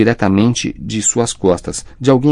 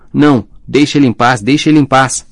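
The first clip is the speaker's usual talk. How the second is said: louder, higher protesting cry; 4 semitones higher, 4 dB louder than usual. A narrator's reading. Hermione begs captors to leave Ron alone, crying out. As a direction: plead loudly, repeating the demand. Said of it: "Hermione gritou".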